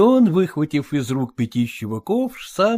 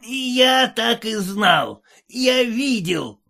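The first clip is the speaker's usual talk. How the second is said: higher, slow exclamation; shouting; 6 semitones higher, slower than usual. A narrator's reading. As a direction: cry it out in bitter realisation. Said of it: "закричал капитан".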